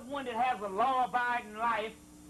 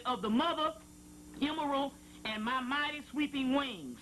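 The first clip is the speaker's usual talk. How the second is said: raised, solemn reading voice; scripture reading; 2 semitones higher than usual. Acted. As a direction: intone it like holy text. Reading a sacred passage aloud.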